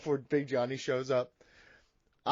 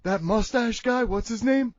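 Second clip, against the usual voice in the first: Big Johnny voice. Acted. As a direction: lecture him in character, cocky. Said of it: "but Big Johnny".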